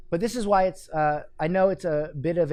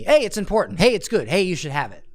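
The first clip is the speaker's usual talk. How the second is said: mock pushy bark; 3 dB louder than usual. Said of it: "You're just telling me".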